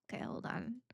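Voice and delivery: quick unvoiced aside; whisper. Real, not acted. Pausing the game, whispering. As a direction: whisper it to yourself.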